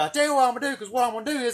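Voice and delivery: loud, high menacing officer; loud cocky cop building up a threat; prick cop voice. Retold or imitated. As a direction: threaten him like a power-tripping cop. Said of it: "talking like a fucking prick motherfucker".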